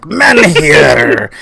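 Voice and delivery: a hint of battle cry on "Menhir!"; Celtic warrior. Shown as a demonstration. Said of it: "You gotta say it like you're a Celtic warrior".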